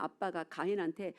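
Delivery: usual speaking voice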